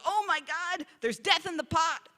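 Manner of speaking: a hammed-up outcry over bitter stew; mock panicked cry. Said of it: "They cry out".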